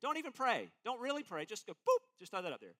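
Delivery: light, dismissive social-media ask; a touch of lazy request, boop and all; mock casual plea. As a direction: shrug it off like it hardly matters. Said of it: "we don't even have this".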